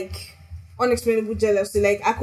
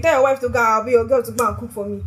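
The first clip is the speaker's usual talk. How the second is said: mock intrusive friend; 3 semitones higher, 5 dB louder, faster than usual. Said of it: "your friend comes and, like".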